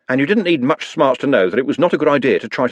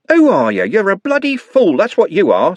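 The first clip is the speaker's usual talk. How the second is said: high furious yell at the crowd; screaming; 10 semitones higher, 5 dB louder than usual. A narrator's reading. Trev screaming at Algernon in a rage. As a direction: scream the insult, voice cracking high. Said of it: "screamed Trev".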